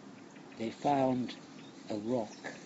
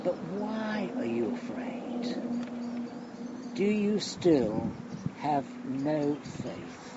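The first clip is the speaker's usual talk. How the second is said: gentle question; slower than usual. Acted. Jesus gently questions disciples.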